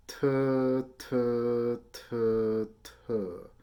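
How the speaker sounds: loud, even "Ta" syllables with a firm T; tongue tip strikes behind the front teeth on each "Ta". Shown as a demonstration. Teacher showing tongue placement, firmly T-tongued "Ta". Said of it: "right behind your front teeth".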